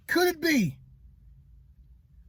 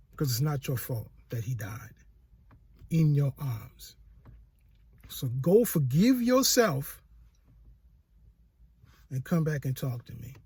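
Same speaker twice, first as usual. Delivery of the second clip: God's voice; 8 semitones lower than usual. Retold or imitated. God answers the son tenderly.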